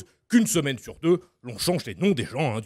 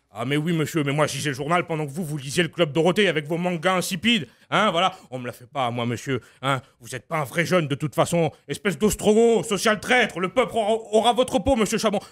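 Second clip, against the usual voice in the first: high, fiery tribune's voice; a raised, combative Mélenchon; Mélenchon impression; 3 semitones higher than usual. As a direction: orate like a firebrand politician. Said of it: "Jean-Luc Mélenchon".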